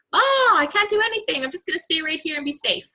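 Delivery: hammed-up defeated whine; mock defeatist whine. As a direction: whimper like you've given up. Voicing defeated self.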